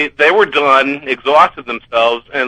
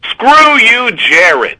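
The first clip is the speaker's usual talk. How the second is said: punchy Boston accent, higher pitch; 7 semitones higher, 4 dB louder, much slower than usual. Shown as a demonstration. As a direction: say it like a Bostonian fan. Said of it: "I do it well enough with a Boston accent?".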